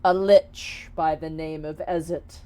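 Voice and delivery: stately genie offering a quest; a touch of grandiose promise; lightly voiced grand genie. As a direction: proclaim it in measured, weighty phrases.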